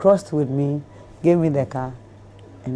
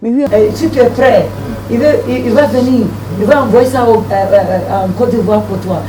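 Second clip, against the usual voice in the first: higher, louder French; French reply relayed; 5 semitones higher, 6 dB louder than usual. Retold or imitated. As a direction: relay the answer in brisk French. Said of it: "I come back and I tell the man".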